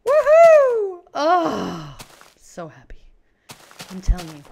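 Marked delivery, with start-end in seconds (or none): 0.1-1.0 high squeal building to a whoop; thrilled, rising to a loud cheer; jubilant celebration. Real, not acted. Celebrating ready-made houses. 1.1-3.0 contented sigh. Real, not acted. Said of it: "that's just the sound of contentment".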